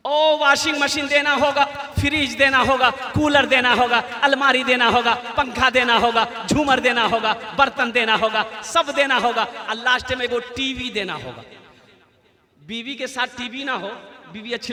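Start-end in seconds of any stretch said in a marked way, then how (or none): 0.1-11.4 imitated greedy list, hammered item by item; insistent demands. Groom's father listing dowry items, mock-insistent demanding. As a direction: reel off each demand in the same insistent beat.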